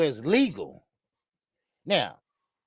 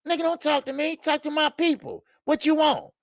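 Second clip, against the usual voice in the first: imitating Tank; 9 semitones higher than usual. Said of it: "he looking at you like".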